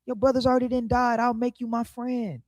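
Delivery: a lightly voiced king, hushed and persuasive; smooth-talking king. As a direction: sweet-talk him in a hushed, hurried voice. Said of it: "He like".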